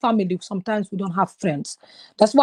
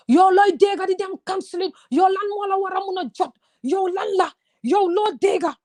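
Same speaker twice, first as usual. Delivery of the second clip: high, mocking sister's voice, pitched way up; 8 semitones higher than usual. Sister mocks counseling in a high scoffing voice. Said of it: "My sister said to me".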